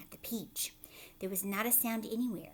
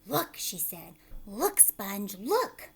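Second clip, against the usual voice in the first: amazed aunt; 4 dB louder, slower than usual. Acted. Aunt Spiker calling Sponge to look. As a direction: gasp and point.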